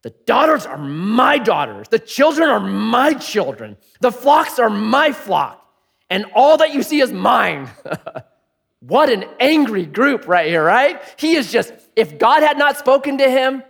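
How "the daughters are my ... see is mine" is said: slow, louder, higher greedy claim; possessive Laban. Acted. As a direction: Laban grasping at everything. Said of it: "Laban answered and said to Jacob".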